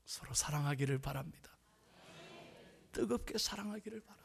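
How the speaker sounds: softly spoken, solemn plea; quiet exhortation with long pauses; hushed appeal. Real, not acted. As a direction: let it settle gently. Solemn appeal after moving story.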